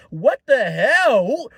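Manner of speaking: shocked shout. Real, not acted. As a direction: yell it out in total shock. Shocked by Dry Bowser.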